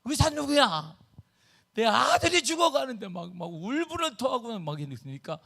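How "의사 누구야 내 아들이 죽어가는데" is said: high, raised-voice outburst imitating a furious father; angry father. Imitating brother-in-law raging at ER staff, angry. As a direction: demand a doctor like a desperate dad. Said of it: "큰처남이 막 화가 난 거예요".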